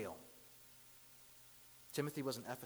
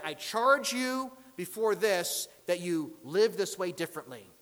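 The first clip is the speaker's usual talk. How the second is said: emphatic, measured legal declaration; courtroom charge; 3 semitones higher, 8 dB louder than usual. Acted. Acted charge in a legal context.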